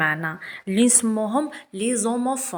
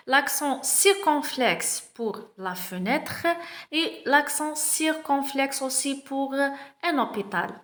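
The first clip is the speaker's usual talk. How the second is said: slow reading aloud; 3 semitones higher, much slower than usual. Shown as a demonstration. Teacher reading the text aloud to pupils, very slow. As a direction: read each word very slowly. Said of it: "On va commencer".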